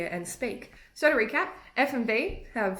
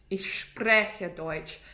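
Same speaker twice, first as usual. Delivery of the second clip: slow Austrian German accent demo; Austrian-sounding German; 3 dB louder, much slower than usual. Shown as a demonstration. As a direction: say it slowly with a rolled Austrian R. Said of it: "That's more Austrian in terms of accent".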